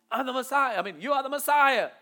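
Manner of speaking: a hint of Peter's enthusiasm; enthusiastic Peter. Peter blurting his declaration to Jesus, lightly enthusiastic. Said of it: "Peter, as enthusiastic as he is".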